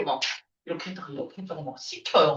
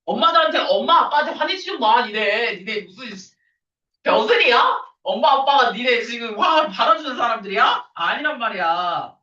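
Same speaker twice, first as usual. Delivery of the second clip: loud, high scolding, half joking; teacher scolding her class, loud and high; scolding students; 3 semitones higher, 4 dB louder than usual. Real, not acted. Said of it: "teacher scolding students about parents".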